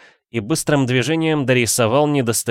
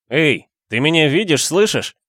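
higher, louder call; 7 semitones higher, 4 dB louder than usual. A narrator's reading. Ghost calling out to the count. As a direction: call out to get noticed.

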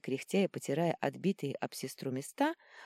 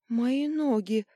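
high pained cry, louder; moaning; 8 semitones higher, 6 dB louder, much slower than usual. A narrator's reading. Sister under the armour, crying out in pain. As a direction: moan it out like she's hurt. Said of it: "простонала та".

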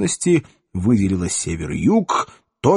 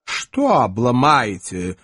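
cold puzzlement; slower than usual. Acted. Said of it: "не оценил юмора вершитель".

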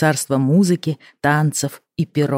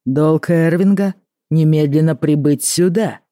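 barking; 3 dB louder than usual. Acted. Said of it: "рявкнул король".

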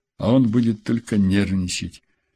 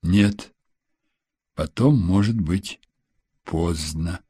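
gentle reminder; 4 semitones lower, slower than usual. A narrator's reading. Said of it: "мягко напомнил ей Саид".

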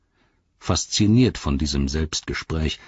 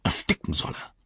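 growling; 5 dB quieter than usual. Acted. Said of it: "knurrte er".

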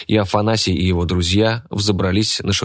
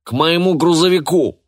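high, raised-voice summons; urgent call; 9 semitones higher, 4 dB louder than usual. A narrator's reading. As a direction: shout directions to people fleeing. Calling fugitives to his truck. (призывный крик)

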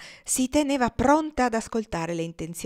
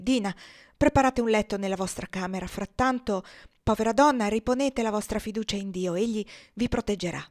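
a touch of gentle motherly comfort; senator's wife comforting the runaway, lightly voiced; lightly voiced kind lady; 2 semitones higher than usual.

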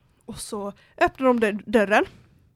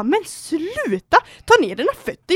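high-pitched, exasperated retelling; calling out angrily; 5 semitones higher than usual. Retold or imitated. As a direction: replay the protest with a raised voice. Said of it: "Sänk rösten lite, för du ropar". (upprört återgivet, med höjd röst)

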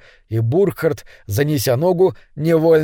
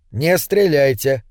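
calm command; slower than usual. Acted. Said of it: "спокойно приказал вошедший".

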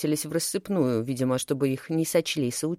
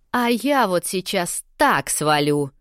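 slow, louder angry retort; 2 semitones higher, 4 dB louder, slower than usual. A narrator's reading. Narrator angrily answers the rude snowflake. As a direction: drag out the threat angrily. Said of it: "рассердилась я".

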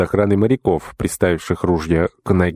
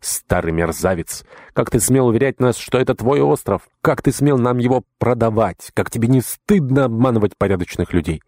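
raised, indignant scolding voice; angry scolding; 4 semitones higher than usual. Acted. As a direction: berate the old swindler. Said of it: "сорвал злобу на своём недостойном тесте".

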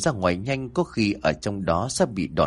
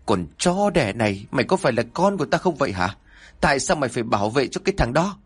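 a fast, lightly raised father's tirade; mild mock yell; 3 semitones higher, faster than usual. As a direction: hurl it quickly while beating her. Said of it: "vừa đánh vừa gào lên". (người cha gào lên nhẹ, nói nhanh)

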